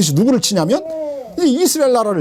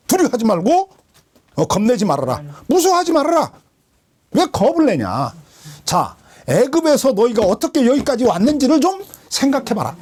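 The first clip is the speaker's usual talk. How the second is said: Moses exhorting; 4 semitones higher than usual. Retold or imitated. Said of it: "모세가 그들에게 말했다는 거야".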